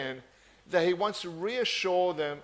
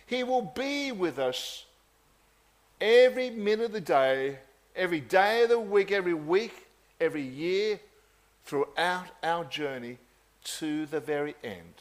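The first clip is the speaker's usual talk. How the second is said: building sermon cadence. Real, not acted. Building promise of God's presence.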